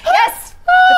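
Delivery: very high victorious yell; triumphant shout. Real, not acted. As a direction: cheer like you just won. Wins the bet.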